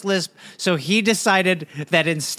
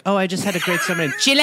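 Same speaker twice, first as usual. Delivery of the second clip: fast, breezy returning tourist; valley girl voice; 4 semitones lower, much faster than usual. Retold or imitated. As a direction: gush like a bragging traveller. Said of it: "a white girl comes back from Chile".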